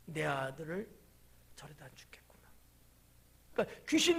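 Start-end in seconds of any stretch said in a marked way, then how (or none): 0.1-2.4 hushed whisper of a frightened father; father whispering his fear for his son; whispered thought. Retold or imitated. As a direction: breathe it like a dreaded thought. Father's fearful inner thought voiced.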